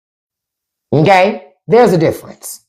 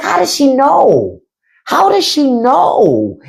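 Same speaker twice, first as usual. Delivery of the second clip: put-on baffled kid; 5 semitones higher, slower than usual. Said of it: "I was like".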